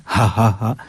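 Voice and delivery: हा, हा, हा as separate chest breaths; ha as in laughing. Shown as a demonstration. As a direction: puff out हा like a demonstrated laugh. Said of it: "जैसे हम हंसते हैं". (हंसी जैसा हा, सीने के पास से)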